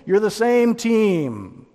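a frustrated captain calling out to his own team; exasperated teammate plea. Retold or imitated. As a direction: plead with squabbling teammates, rising to a near shout. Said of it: "you're thinking".

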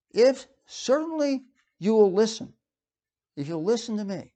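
"listen" stressed, with deliberate pauses; emphatic quote. Acted. Preacher quoting God's condition to Israel, emphatic. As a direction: set out "certainly you will listen" in measured, weighted pieces. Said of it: "he emphasizes this".

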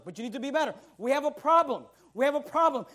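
ordinary talk, nothing marked

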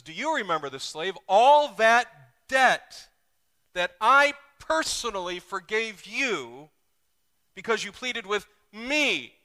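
loud, slow, high kingly rebuke; a king reminding his slave of the debt; the king speaking. Acted. King reminds the forgiven slave of his debt, loud rebuke. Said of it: "The king says".

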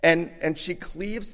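loud, rising preacher's cry; preaching at full force. Acted. Preacher lifting his voice to the church, loud and fervent. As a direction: proclaim it to the congregation.

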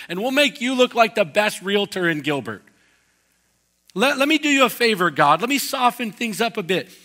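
loud, high, eager sales patter to God; hard-sell God like a fast-talking realtor; pushy salesman pitch. Acted. Preacher plays a salesperson pitching God, loud and eager. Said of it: "And we go, "Hey, God".

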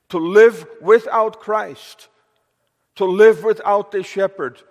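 fervent pulpit cry building over repeated phrases; rising preacher's warning. Real, not acted. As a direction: drive the warning home to the congregation. Preacher warns against life without Christ.

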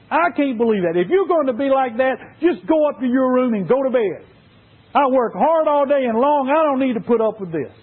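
irritated dad. Acted. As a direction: scold the kid and send him to bed. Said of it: "The dad got irritated and said".

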